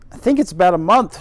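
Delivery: quick, loud girl's answer in faux Yorkshire; faux Yorkshire accent. Mary answering the gardener quickly, in faux Yorkshire. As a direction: rattle it off in a put-on Yorkshire lilt. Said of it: "Mary has my terrible faux Yorkshire accent".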